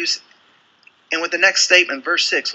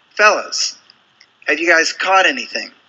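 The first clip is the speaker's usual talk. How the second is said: higher, louder call across the water; calling from shore; 3 semitones higher, 4 dB louder than usual. Acted. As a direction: shout it out to a boat far offshore. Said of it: "he's screaming from the shore".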